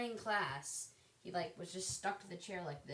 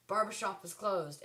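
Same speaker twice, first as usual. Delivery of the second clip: louder, drawn-out imitation of a teacher scolding; mock teacher snap; 3 semitones higher, 5 dB louder than usual. Teacher to girls doing hair, mock snap. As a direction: imitate a teacher calling students to order. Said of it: "teacher would snap at one and say".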